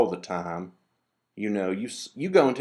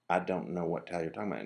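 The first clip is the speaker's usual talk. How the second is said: quick, dismissive imitation of a rude clerk; rude reply; 4 semitones lower, 6 dB quieter, faster than usual. Retelling a rude store clerk's reply, quick mock dismissive. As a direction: toss it off fast like a bored clerk. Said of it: "in kind of a rude way".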